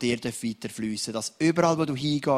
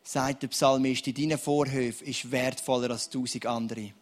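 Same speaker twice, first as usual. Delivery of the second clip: earnest spoken prayer over the room. Real, not acted. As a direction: pray earnestly for the dry ones. Pastor prays over congregation.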